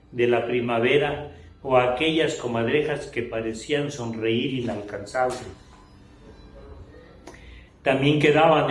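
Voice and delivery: measured declamation of a written testimony, phrase by phrase; solemn literary reading. Acted. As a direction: read it out like a prose poem, with deliberate pauses. Reads written testimony aloud. (lectura solemne y declamada de un testimonio)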